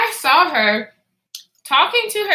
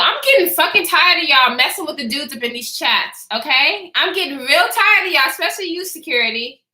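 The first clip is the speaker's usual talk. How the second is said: playful scolding; 3 semitones higher than usual. Acted. Teasing chat, scolding dudes' harassers.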